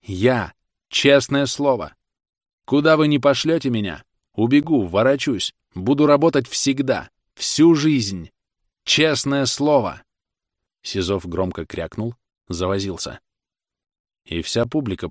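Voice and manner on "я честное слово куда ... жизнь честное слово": higher, louder pleading cry; young defendant crying out to the judges. A narrator's reading. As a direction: plead loudly, slowing on the oath. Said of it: "он крикнул".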